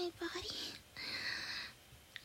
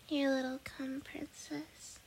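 pillow talk. Acted. Soft afterglow, saying good night.

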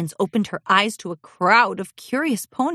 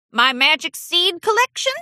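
much higher, dismayed question; surprised grandpa; 10 semitones higher, 3 dB louder than usual. Acted. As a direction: gasp it out in dismay. Grandpa asks.

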